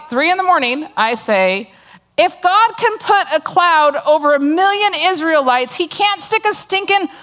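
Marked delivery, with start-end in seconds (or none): 2.2-7.1 higher, mocking complaint to God; sarcastic whine at heaven. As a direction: lay the sarcasm on thick about the rain. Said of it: "I'm totally sarcastic".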